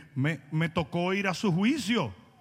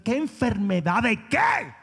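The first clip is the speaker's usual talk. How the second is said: incredulous shout; slower than usual. Real, not acted. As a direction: shout down the excuse. Réplica gritada del predicador. (réplica lenta y gritada con desprecio)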